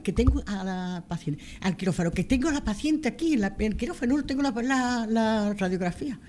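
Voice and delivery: high, pressing, anxious request; urgent plea. Retold or imitated. A surgeon telling María his patient is on the table, urgent and high. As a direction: beg her to hurry, patient waiting.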